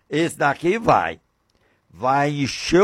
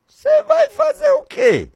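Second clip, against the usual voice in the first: divine question; 4 dB louder than usual. Acted. God questions Samuel.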